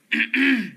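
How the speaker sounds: short throat clearing. Real, not acted. Mid word list, clears throat. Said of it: "clears throat".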